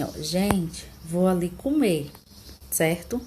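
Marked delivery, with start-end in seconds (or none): 0.2-2.1 "Gente" falls on its own, pause, then "vou ali comer"; vocative comma pause. Shown as a demonstration. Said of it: "dizer assim". ("Gente" como chamamento, com pausa antes de "vou ali comer")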